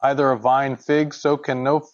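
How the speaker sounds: measured, even Bible reading; scripture reading. Acted. Teacher reads James chapter three to the group, measured scripture reading. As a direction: read the verses out steadily and formally.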